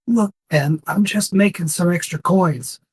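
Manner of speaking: pleading touch to an orc impression; imitation orc. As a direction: explain yourself as a mildly put-on orc. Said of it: "in this imitation of an orc's voice".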